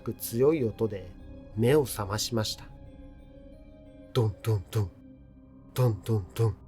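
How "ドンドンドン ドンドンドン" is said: knocking sound. A narrator's reading. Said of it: "壁を叩く強い音で".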